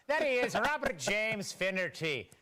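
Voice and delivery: slow, playful Irish brogue; hammed-up Irish accent. Host introducing an Irish commentator, hammed-up Irish accent. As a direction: stretch it out in a mock Irish accent.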